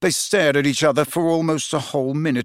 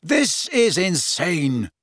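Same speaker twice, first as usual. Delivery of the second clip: slow, higher protest; exasperated; 4 semitones higher, much slower than usual. Acted. Friend after sudden attack, exasperated. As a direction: space it out in exasperation.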